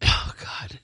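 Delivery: hiccupping mid-sentence; with hiccups. Real, not acted. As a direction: caught by a hiccup. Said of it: "Sorry, I have the hiccups".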